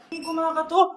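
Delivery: hammed-up scared whimper; mock frightened whimper. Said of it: "takot na takot ah".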